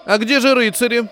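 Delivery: high-pitched capricious question; petulant woman. A narrator's reading. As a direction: play a lady making a fussy demand. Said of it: "капризно спросила одна из женщин".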